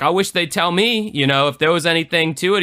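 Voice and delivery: a hint of innocent wishing; mock Clinton. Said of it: "He's like".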